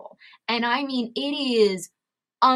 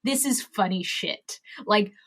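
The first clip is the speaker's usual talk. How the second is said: dick answer. Pretend. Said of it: "The dick answer is".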